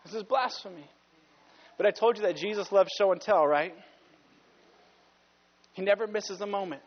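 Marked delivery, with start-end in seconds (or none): 0.0-0.9 low, quiet echo of outrage; softly repeated charge; hushed accusation. Acted. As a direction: drop low and soft, appalled.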